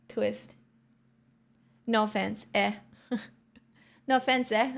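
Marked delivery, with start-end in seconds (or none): 1.9-4.7 put-on joking Canadian accent. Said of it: "when I try and speak Canadian".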